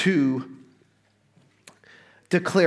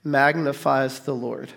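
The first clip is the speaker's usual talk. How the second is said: scripture reading; slower than usual. Acted. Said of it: "It says".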